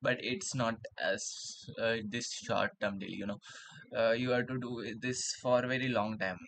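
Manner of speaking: talking around a pen in the mouth; pen in teeth. Real, not acted. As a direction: speak with a pen clamped in the teeth. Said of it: "reading the book with pen in my mouth".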